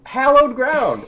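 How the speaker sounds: "Hallowed" as HAL-ohd, high, loud and slow; demonstrated pronunciation. Shown as a demonstration. Proving the point to Genevieve, "Hallowed" with emphatic A. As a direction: spell out "Hallowed" by voice with a cat A. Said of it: "how is the word hallow pronounced?".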